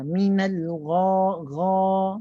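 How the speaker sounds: long, held GHA with the lips left neutral; relaxed lips. Shown as a demonstration. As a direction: raise only the tongue root for gha, lips unrounded. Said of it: "Bibir tu kekal macam biasa". (gha panjang, bibir kekal biasa, pangkal lidah tinggi)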